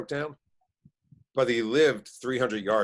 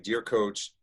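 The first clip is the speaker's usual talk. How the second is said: reading the note; slower than usual. Retold or imitated.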